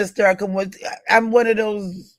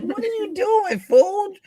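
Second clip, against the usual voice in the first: mock scolding self; 14 semitones higher, 3 dB quieter than usual. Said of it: "all of a sudden I wanna go a hundred".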